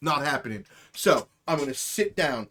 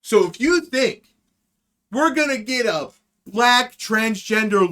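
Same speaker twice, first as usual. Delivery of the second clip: emphatic rant; 5 semitones higher, 6 dB louder than usual. Real, not acted.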